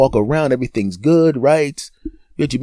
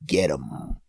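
low menacing order; 9 semitones lower, 8 dB quieter than usual. Acted. Body voice orders attack.

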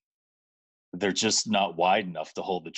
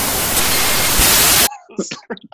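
wheezing laugh; 10 dB louder than usual. Real, not acted. Laughing hard mid-story.

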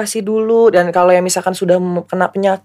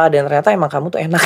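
laughing; 2 semitones lower, faster than usual. Retold or imitated. Quoting ex, laughing.

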